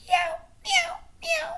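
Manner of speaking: very high tomcat meows; cat meow. Acted. Reading to children, a high cat meow. Reading farm animal noises.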